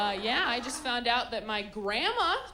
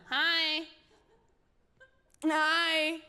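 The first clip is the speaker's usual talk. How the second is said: put-on baby greeting; 4 semitones higher, much slower than usual. Imitating waving baby and parent.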